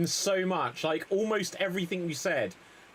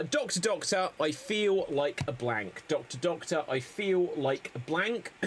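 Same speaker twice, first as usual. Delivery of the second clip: slow, sing-song joke setup; joke rhythm demo. Shown as a demonstration. Host showing the joke pattern, slow rhythmic read. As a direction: lay out the rhythm slowly. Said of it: "jokes which will follow the rhythm".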